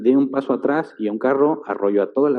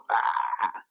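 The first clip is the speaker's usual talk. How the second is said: retold cry of pain; 9 dB quieter than usual. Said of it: "un grito en particular, de dolor".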